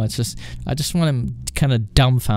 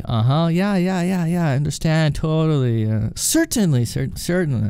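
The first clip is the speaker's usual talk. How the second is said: higher, run-on mock agreement; feigned interest; 4 semitones higher than usual. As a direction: humour the caller with empty agreement. Agent feigning interest in rambler.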